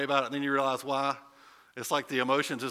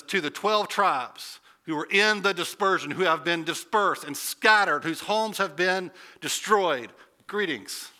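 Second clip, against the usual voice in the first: a hint of a grim general, raised voice; general addressing soldiers; 4 semitones higher, 4 dB louder than usual. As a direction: address scattered troops without pity. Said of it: "It's like a general talking to his soldiers".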